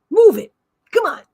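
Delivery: put-on pushy New York accent; mock New Yorker. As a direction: play an impatient New Yorker. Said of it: "talk like a New Yorker".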